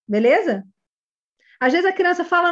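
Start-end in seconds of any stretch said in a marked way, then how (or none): none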